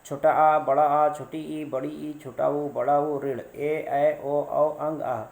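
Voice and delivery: reciting the Hindi vowels slowly, one at a time, छोटा आ to आह; slow vowel recitation. Shown as a demonstration. Teacher reciting vowels for students to count along, slow and clear. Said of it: "आप इसको गिनिए मेरे साथ".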